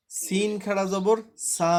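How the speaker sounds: slow spelling. Shown as a demonstration. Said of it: "টান দিয়ে পড়তে হবে।".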